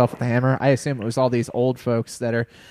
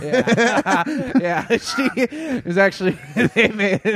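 laughing while talking; 7 semitones higher, slower than usual. Real, not acted. Laughing while telling the story.

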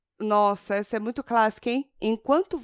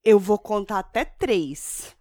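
slow stern warning; slower than usual. Retold or imitated. Mother counting warning.

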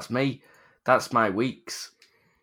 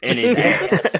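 high excited shout; 11 semitones higher, 7 dB louder, much slower than usual. Real, not acted. Crude punchline shouted high.

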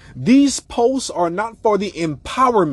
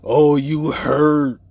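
mocking; 3 dB louder, much slower than usual. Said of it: "women sit up here and just say".

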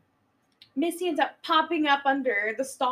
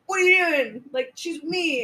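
mock tough guy; 3 semitones higher, 4 dB louder than usual. Angry man confronting the woman's pursuer.

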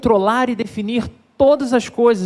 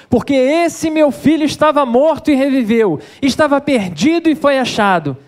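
raised, louder joyful father ordering the servants; father calling servants; 4 semitones higher, 3 dB louder than usual. Acted. Father in the parable calls to his servants, raised and joyful. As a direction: call it out like the overjoyed father.

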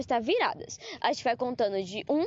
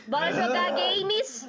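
long, drawn-out high call; rallying call; 6 semitones higher, much slower than usual. Real, not acted. Rallying friends to play games, calling out. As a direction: call everyone to play, stretching the words.

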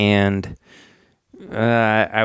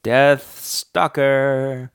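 ominous slow intone; 2 semitones higher, much slower than usual. Pretend. Dramatic naming of the character.

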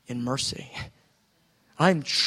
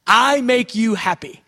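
joyful; 5 semitones higher, 8 dB louder than usual. Acted. Acting God speaking joyfully.

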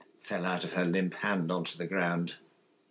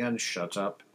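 yawning. Acted. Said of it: "said Bill, yawning".

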